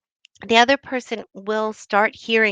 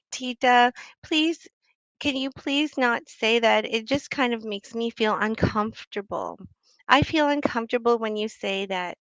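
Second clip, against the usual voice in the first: polite plea; 3 semitones higher than usual. Shown as a demonstration. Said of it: "you have to just say".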